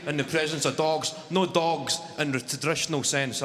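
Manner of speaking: normal talking voice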